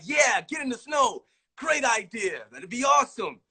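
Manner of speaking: imitating a camera crew hyping up a bad idea; mock eager crew. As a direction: cheer him on like an overexcited crew.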